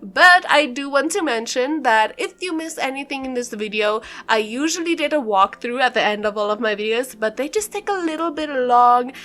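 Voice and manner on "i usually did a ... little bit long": slightly winded talking; out of breath. Real, not acted. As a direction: talk a little short of breath. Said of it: "I am kind of out of breath already".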